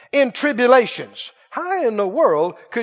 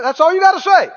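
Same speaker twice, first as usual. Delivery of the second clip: normal talking voice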